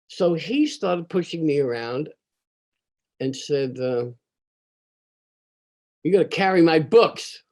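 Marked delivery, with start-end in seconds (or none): 6.0-7.4 lightly voiced bully, louder; bully's demand. Bully ordering a smaller kid around, mildly menacing. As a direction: give a mild bullying order.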